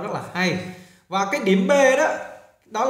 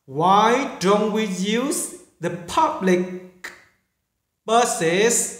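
slow model reading; much slower than usual. Shown as a demonstration. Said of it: "hơi khó phát âm".

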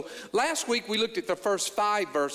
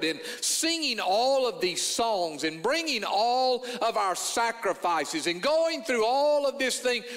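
mock weary complaint; 3 semitones higher than usual. Preacher mimics bored worshippers to his congregation, mock-weary whining. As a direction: play the bored worshipper moaning about church, a little hammed-up. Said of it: "There are those who are saying".

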